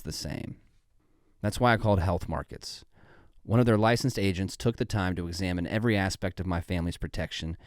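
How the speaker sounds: measured sponsor testimonial read. Acted. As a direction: read it as a veteran's scripted endorsement.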